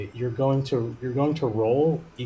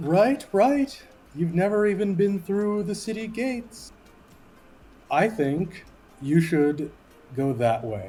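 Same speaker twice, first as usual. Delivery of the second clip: unhurried, plodding, slow, drawn-out character voice, pitched up; 7 semitones higher than usual. Narrating a game, voicing a character who points the way, in a slow voice. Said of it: "slow voice says".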